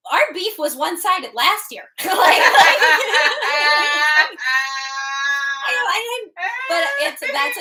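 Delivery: high, loud words breaking into laughter; can't get the line out for laughing; laughing through it. Real, not acted. Telling her cohost about the beer rep, laughing hard.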